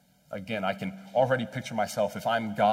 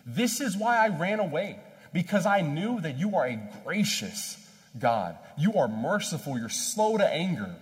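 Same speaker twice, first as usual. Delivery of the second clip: higher-pitched angry complaint to God; angry prayer; 4 semitones higher, 3 dB louder than usual. Acted. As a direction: throw the praise up as an accusation. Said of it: "he's saying it in this angry voice".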